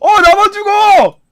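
high, slow crying wail; anguished wail. Real, not acted. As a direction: wail as if betrayed. Dies in game, wails. (울먹이며 길게 외침)

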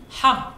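a forceful throaty Ha, like after spicy food; strong Ha sound. Shown as a demonstration. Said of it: "It's very spicy".

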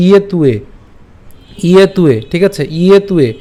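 "ইয়ে তুয়ে" with the t run into the following উয়ে; joined pronunciation. Shown as a demonstration. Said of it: "তখন সেটা হয়ে যাবে উয়ে". ("ইয়ে তুয়ে" জুড়ে স্পষ্ট উচ্চারণ)

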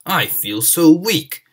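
slow, drawn-out feeble complaint; weak. Acted. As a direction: sound worn out and faint. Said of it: "asked Gordon".

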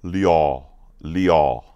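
liao as "lee-ow", stretched and falling; Mandarin six. Shown as a demonstration. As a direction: draw out liao in one falling glide. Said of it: "and it's pronounced liao".

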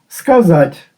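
Сказать with a Russian ending, no final vowel; Russian pronunciation. Shown as a demonstration. Teacher showing how Russians changed сказати. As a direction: say Сказать the Russian way, clipped at the end. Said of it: "Сказати взяли".

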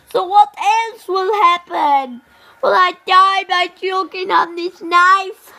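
mock panic, loud; panicked. Luigi toy panics over the knife, loud mock panic.

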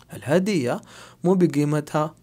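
कीमत said as गीमत with a hard g; Gulf Arabic g sound. Shown as a demonstration. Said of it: "बोलने में गा का इस्तेमाल होता है". (कीमत को गीमत बोलिए)

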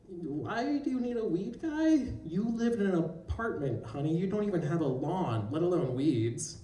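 a gentle, puzzled therapist; a hint of a patient therapist. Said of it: "She looked at me and says".

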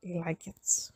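soft whisper to the horse. Real, not acted. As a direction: hush it like a secret. Softly talking to the horse.

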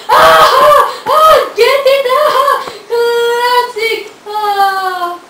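high hammed-up cackling laugh at his own pun; over-the-top self-amused guffaw; laughing at own joke. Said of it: "my hilarious jokes".

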